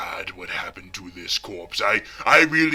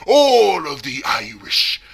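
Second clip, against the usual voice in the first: higher, drawn-out wail of grief; mourning the Irish gang, a slow louder lament; 6 semitones higher, 7 dB louder than usual. Acted.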